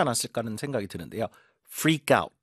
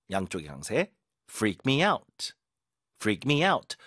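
ordinary talk

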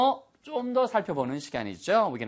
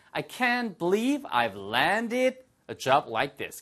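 each word drawn out; very slow model line; 3 semitones higher, much slower than usual. Shown as a demonstration. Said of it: "model sentence".

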